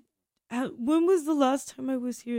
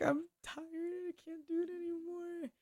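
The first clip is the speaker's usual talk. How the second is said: higher, much softer mock sob; a hammed-up tearful plea; imitating crying; 7 semitones higher, 10 dB quieter than usual. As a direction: whimper it like a worn-out friend. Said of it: "everyone was crying and being like".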